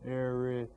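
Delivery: "Arizona" split, with ZO held long; stress on third syllable. Shown as a demonstration. Teacher points out the accented syllable, ZO stressed in "Arizona". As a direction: lean on the ZO in "Arizona". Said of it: "the third syllable".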